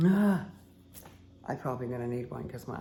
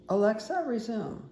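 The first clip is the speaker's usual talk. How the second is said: calling out; 7 semitones higher, 7 dB louder than usual. Real, not acted. Calling out to a device.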